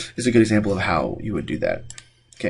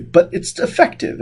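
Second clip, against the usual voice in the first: squeaky aside; 3 dB louder than usual. Real, not acted. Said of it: "voice jumps up, whispery".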